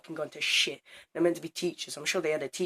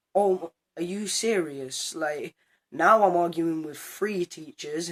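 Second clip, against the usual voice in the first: slow, drawn-out mock disbelief; exasperated disbelief; 2 semitones higher, 5 dB louder, slower than usual. Retorting to the head of year, slow and incredulous. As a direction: stretch the words out, incredulous.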